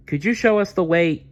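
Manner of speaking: put-on high, pleading young voice; little Dazzle. Dazzle tells the apatosaurus they are lost, high and pleading. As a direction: explain sheepishly that you got lost.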